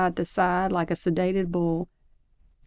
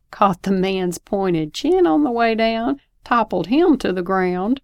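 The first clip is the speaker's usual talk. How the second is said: excited; 3 semitones higher, 5 dB louder than usual. Real, not acted. Child acts out the blow.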